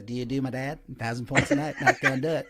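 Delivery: retold impression of a comic's presidential impression; lightly voiced catchphrase president; George Bush. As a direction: toss off the sketch president, amused. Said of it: "he did Dana Carvey's dad".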